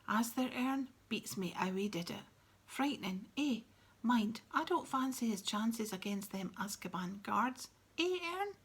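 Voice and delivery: lightly voiced cheeky bus conductor, chatty; a hint of a gossiping Cockney lad, pitch jumping up at the end; Stan the conductor. Stan gossiping to Ern about the escaped prisoner, chatty and cheeky.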